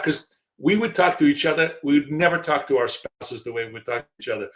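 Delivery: ordinary talk, nothing marked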